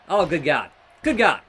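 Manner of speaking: hammed-up announcer gasp; mock commentator awe. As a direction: exclaim like a stunned ringside commentator. Commentator catchphrase at big move.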